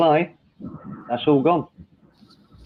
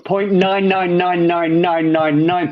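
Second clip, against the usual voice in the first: drawn out; 3 semitones higher, slower than usual. Acted. Stretched-out number for emphasis.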